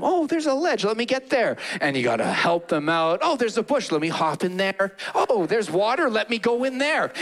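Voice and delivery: high, chirpy sheep eager for trouble; silly sheep voice. Acted. Preacher voicing sheep wandering into danger, high and chirpy.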